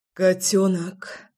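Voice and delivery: slow, breathless call. A narrator's reading. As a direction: pant it out heavily. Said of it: "Тяжело дыша от нахлынувшего возбуждения".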